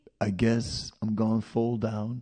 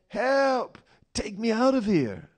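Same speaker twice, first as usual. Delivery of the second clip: high, frantic cry for help; mock panic; 13 semitones higher than usual. Burned-out devotee in the field crying for help, high panicked squeal. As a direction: squeal it like a terrified man. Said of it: "and he goes".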